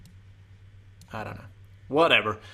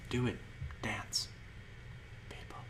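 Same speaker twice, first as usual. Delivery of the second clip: whispering; 14 dB quieter than usual. Acted. Starts whispering to viewers.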